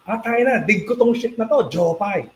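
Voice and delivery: high, keen fan outburst; imitated fan enthusiasm. Band member voices the dude who really likes the song, mock excitement. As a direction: cheer it like someone loving the song. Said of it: "that's his expression of".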